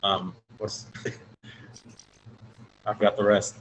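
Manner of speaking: bad connection, words dropping out; breaking up over a weak line; voice cutting in and out. Real, not acted. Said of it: "Your voice is going in and out".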